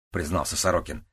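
usual speaking voice

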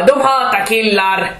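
slow, sulky mock complaint from the rejected man; "De hatar killar" drawn out, slow and a touch sulky; mock angry man. Rejected man at bus stop complaining, slow mock anger. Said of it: "Och då blev han arg".

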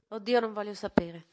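molto più forte, allarmata; esclamazione spaventata. A narrator's reading. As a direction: respingi la notizia con paura. Madre spaventata dalla notizia. (madre che non vuole sapere, esclama allarmata)

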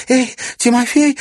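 high bright call after him; exclaiming. Acted. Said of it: "воскликнула она".

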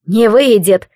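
bare your teeth on it; vicious snarl. Acted. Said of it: "оскалился Невис".

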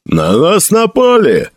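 high, slowed warning cry; urgent alarm cry. A narrator's reading. Soldier wakes Felix with news of attack, crying out. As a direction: cry out the alarm to rouse him.

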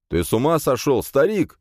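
high, outraged yell; indignant shout. A narrator's reading. Hero protests to the old priest, shouting. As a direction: shout it in disbelief. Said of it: "закричал я".

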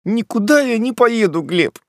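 lightly voiced young woman; female character voice. A narrator's reading. Polina voiced by narrator.

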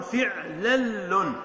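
very slow, drawn-out فعلل; teacher spelling out the pattern slowly; slow demonstration. Shown as a demonstration. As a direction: stretch out فنقول فعلل for the class.

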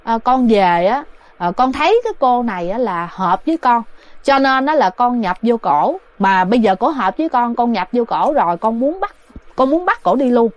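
spirit answering the elder, lightly voiced; possessed spirit answering. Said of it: "trả lời nói rằng".

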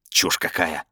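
usual speaking voice

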